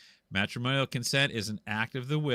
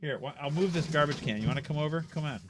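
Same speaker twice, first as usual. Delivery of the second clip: raised-pitch pet coaxing; higher voice for talking to a dog; 4 semitones higher, faster than usual. Real, not acted. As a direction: invite a pet over, voice lifted. Coaxing his dog over.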